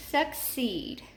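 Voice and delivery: "succeed" in two parts, long E in "ceed"; stressed second syllable. Shown as a demonstration. Teacher repeating the word, "succeed" stressed on the second syllable. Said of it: "accented in the second syllable".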